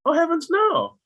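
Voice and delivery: mock-horrified exclamation. Mock horror at a traditional IRA.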